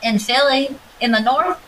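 a hint of a mocking Southern listener; mock Southern accent. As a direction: imitate a listener with a thick Southern twang. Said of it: "They're gonna be like".

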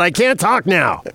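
mumbling through gauze-filled mouth. Pretend. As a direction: speak as if gauze fills your mouth. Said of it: "I got three pounds of gauze in my mouth".

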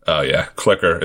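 Boston accent on clicker; thick Boston accent saying clicker. Real, not acted. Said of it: "probably sounds terrible with my Boston accent".

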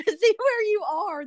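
high, giggly talk through laughter; laughing. Real, not acted. Host amused at hunting for the guest's town, laughing. Laughs while searching the map.

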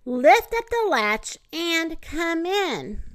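high, slow put-on old-lady voice; wolf posing as grandma. A narrator's reading. Wolf luring the girl inside, faking grandma. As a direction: call out slowly in a fake grandma voice.

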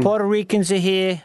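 shaky attempt at Chicago accent; badly faked Chicagoan; failed Chicago accent. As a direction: try a Chicago accent and miss. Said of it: "I, I can't do it".

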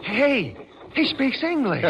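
high, loud surprised relief; suddenly delighted to understand; astonished the stranger speaks English. Real, not acted.

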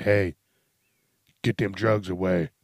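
loud retold command; Batman. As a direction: call it out like a hero bursting in. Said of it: "Batman, he busted the door in".

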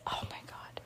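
embarrassed mock whisper. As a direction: hiss it under your breath, mortified. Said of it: "you would just be like this".

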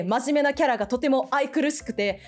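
Hetalia Germany. Pretend. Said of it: "ドイツというキャラでやらさせていただきます".

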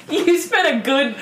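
ordinary delivery

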